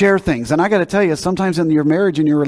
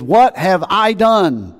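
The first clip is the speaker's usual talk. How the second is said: slow, higher-pitched, drawn-out quote; emphatic question; 5 semitones higher, 3 dB louder, much slower than usual. Acted. Preacher quoting the donkey from the verse, emphatic.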